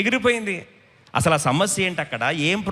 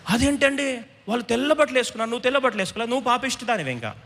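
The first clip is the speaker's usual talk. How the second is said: mock accusation; 5 semitones higher than usual. Voices a judgmental believer's accusation.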